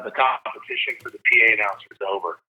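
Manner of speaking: faking bad news, a touch downcast and quick; mock sad. Dad teasing his kids with fake bad news, mock sad. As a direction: play it like you lost, lightly. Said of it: "I said it kinda sad".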